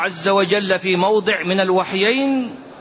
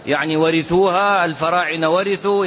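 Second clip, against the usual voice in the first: mock objector. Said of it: "لا تقول".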